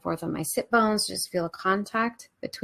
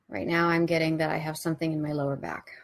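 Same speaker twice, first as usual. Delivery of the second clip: hushed, unhurried trance-like report; meditative visualisation. Real, not acted. Narrates own inner visualisation in meditation.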